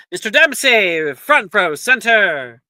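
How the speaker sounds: loud, high teacher summons; calling out. Acted. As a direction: call him to the front. Teacher calling next student.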